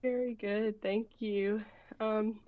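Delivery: breathless from running upstairs; out of breath. Real, not acted. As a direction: talk while catching breath. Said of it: "so I'm a little bit out of breath".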